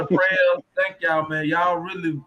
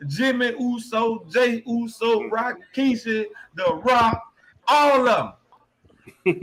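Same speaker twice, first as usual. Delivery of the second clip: grand entrance announcement; 5 semitones higher than usual. Acted. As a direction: ring announcer intro, drawn out. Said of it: "I'm finna get ready to sign off".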